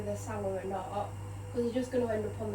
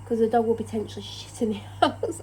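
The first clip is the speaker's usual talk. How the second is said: whispered with a giggle breaking in; giggly whisper; 4 dB louder than usual. Real, not acted. Tired vlogger giggling about the dog, whispered. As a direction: laugh under your breath. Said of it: "I don't know why I'm laughing".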